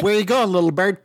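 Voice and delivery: lightly put-on bad movie accent, amused; Jon Voight. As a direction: playfully imitate a badly acted film line. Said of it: "you can't even do it as bad".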